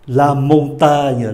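slow "La montagne" ending in a ny sound; gn as "nhờ". Shown as a demonstration. Teacher gives another G-N example, gn as "nhờ". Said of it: "Đọc là nhờ".

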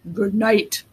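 lightly grumbled dinosaur voice; grumbling big dinosaur. A narrator's reading. Big dinosaur saying good night, mild grumble. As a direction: grumble it reluctantly. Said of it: "grumbled the big dinosaur".

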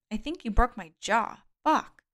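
hurt jaw, words strained; speaking through jaw pain. Acted. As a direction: talk through a throbbing jaw. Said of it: "It hurt to speak".

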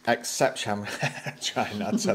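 talking while eating pastry; speaking between bites; mouth full. Real, not acted. Seen 2: Man bit pastry just before; speaks holding food, mouth working.

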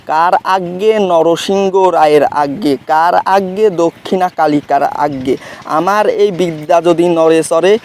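measured, rhythmic verse recitation of a mantra; reciting a spell. Shown as a demonstration. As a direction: intone the incantation line by line, steady beat. Repeats the spell mantra again.

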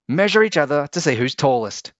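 high, loud and fast; quick excited suggestion; eager idea. A narrator's reading. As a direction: rush it out keenly. Tim eager.

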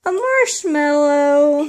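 slow, loud playful announcement; excited reveal. Real, not acted. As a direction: unveil the prize with delight. Revealing surprise in treats.

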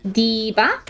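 "D.Va" said with a B, dee-ba; Korean-style pronunciation. Shown as a demonstration. Streamer reading out her stickers, "D.Va" with a B sound. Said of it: "so that's why it's D-ba".

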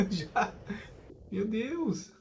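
startled high cry while fleeing; panicked yelp as the monster closes in; being chased. Real, not acted. Creature chases him in the game.

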